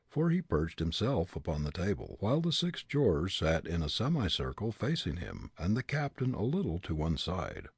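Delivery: ordinary delivery, nothing marked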